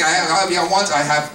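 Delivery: stammering, imitating a tearful plea; mock tearful pleading. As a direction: act out a boy begging through tears. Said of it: "he's crying, he's begging, he's pleading".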